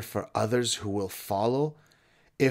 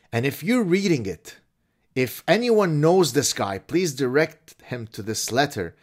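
overwrought letter writer; 2 semitones higher, 5 dB louder than usual. Acted. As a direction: ham up a distraught student on the edge of tears. Mock letter read.

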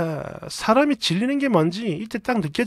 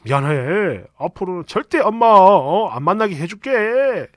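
pleading apology; 4 semitones lower than usual. Retold or imitated. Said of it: "싹싹 빌면서 말합니다".

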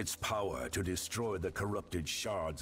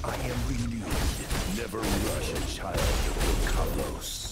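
loud battle bark; 3 semitones higher, 9 dB louder than usual. Acted. Battle barks.

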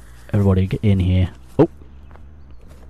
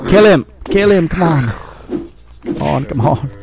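urgent yelling; 7 semitones higher, slower than usual. Real, not acted. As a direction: yell them on, then fade. Urging on the fight.

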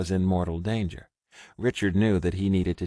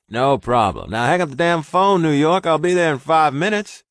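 much higher, louder, gruff and bossy; brisk Ross; 9 semitones higher, 10 dB louder than usual. A narrator's reading. Ross ordering Richard to hang up, brisk. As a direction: shoo him off the phone.

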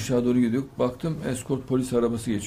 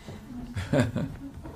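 quiet unvoiced laugh; short voiceless laugh; breathless laugh; 8 dB quieter than usual. Real, not acted. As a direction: let out a soft airy chuckle. Laughs after the knife story.

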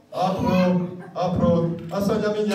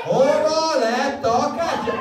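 slower and emphatic; 3 semitones higher, slower than usual. Shown as a demonstration. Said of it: "tudnátok hangosabban mondani? Hadd hallom!".

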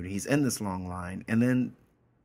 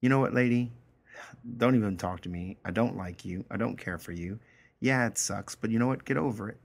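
dismissive. Retold or imitated. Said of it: "Anders' smart way of saying".

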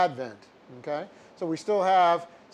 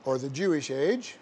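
dictating. Shown as a demonstration. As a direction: dictate it word by word, punctuation aloud.

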